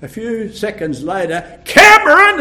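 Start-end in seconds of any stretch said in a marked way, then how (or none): 1.6-2.4 higher and louder call, rising at the end; louder shout. Retold or imitated. Mother calling her son a second time, louder shout. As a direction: call him again, more insistent. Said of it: "And it got louder".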